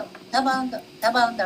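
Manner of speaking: "ఎంత బాగుందో" ని మెల్లగా, తగ్గించిన గొంతుతో; మళ్ళీ అదే మాటను మృదువుగా ఆస్వాదిస్తూ; soft repeated admiration. Shown as a demonstration. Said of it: "డెబ్బై సార్లు అంటాం". (నెమ్మదిగా గుసగుసలా "ఎంత బాగుందో")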